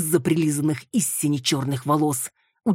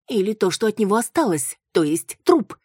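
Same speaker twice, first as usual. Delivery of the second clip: higher, louder on труп; Маруся; 6 semitones higher, 5 dB louder than usual. Acted. Маруся answering Виола, higher. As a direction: say it without looking at them.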